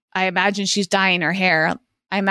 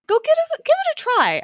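mock pitchman. Pitching the food playfully.

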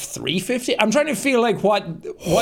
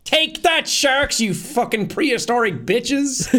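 mock gloating; 5 semitones higher than usual. Gloating at sharks.

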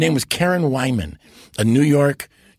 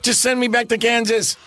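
New York Dorothy; 11 semitones higher than usual. Retold or imitated. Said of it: "she was this other thing".

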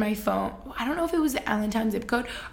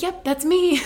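high, loud pretend agreement; mock eager acceptance; 8 semitones higher, 6 dB louder, slower than usual. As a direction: play along with exaggerated cheer. Imagines playing along with the mistake.

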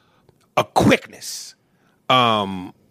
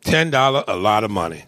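movie line quote; 6 semitones lower than usual. Retold or imitated. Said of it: "famous line that you like to recite".

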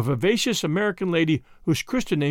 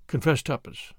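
ordinary delivery, nothing marked

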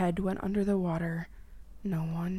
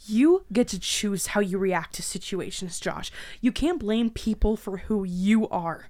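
angry retort; 5 dB louder than usual. Acted. Heated confrontation with captor.

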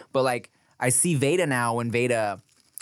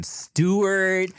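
tag; 8 semitones higher than usual. Retold or imitated. Saying beloved character's name his way.

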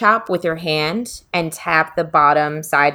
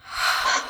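steadying breath; 4 dB quieter than usual. Real, not acted. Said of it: "So let's deep breath".

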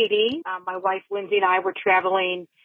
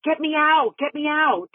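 higher-pitched mock cry for help; retold mild yell; 5 semitones higher than usual. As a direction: plead to be let out without real volume. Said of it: "she's yelling".

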